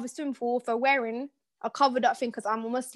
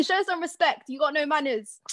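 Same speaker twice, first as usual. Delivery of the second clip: mock telling off; 4 semitones higher than usual. Scolding co-host mock telling off.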